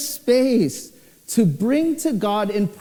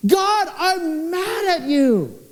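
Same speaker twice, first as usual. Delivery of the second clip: aunt yelling; 4 semitones higher, slower than usual. Retold or imitated. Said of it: "she's saying".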